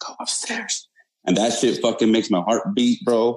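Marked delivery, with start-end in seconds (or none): 0.0-0.9 faint, breathy, barely audible ghostly female whisper. Telling a story, the speaker repeats what a voice whispered in his ear: imitating a female whisper. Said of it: "But like in a whisper".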